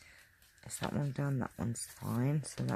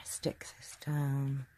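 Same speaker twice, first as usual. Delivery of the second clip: whispering; 4 dB quieter, slower than usual. Real, not acted. Crafting, quiet aside while gluing.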